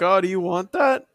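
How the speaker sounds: voicing the ladle. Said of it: "Ladle's just like".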